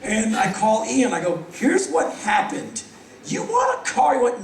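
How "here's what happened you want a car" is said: slow start then a much higher squeak on want; man eagerly offers his friend his car before leaving town. Retold or imitated. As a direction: sell it hard to your friend.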